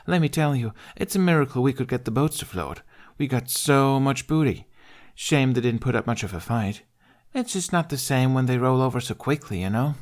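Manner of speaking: high voice full of swagger; proud, arrogant girl. Acted. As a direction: boast about the raid. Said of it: "Pride bordering on arrogance seeped into her voice".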